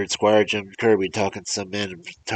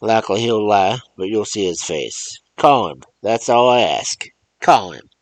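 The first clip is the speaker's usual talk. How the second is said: loud, raised, accusing rant; angry old man; 5 semitones higher, 6 dB louder than usual. Acted. Old man demanding the mother call her boy, angrily loud. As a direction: hammer the mother with blame.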